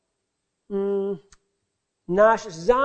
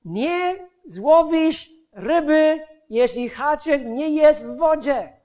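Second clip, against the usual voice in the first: imitating dad, higher and louder as it goes; father's insistent admonishing; 5 semitones higher, 5 dB louder than usual. Father to his impatient child while fishing, insistent admonishing. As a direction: lecture the child, building to loud insistence. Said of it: "I on ciągle mi mówił".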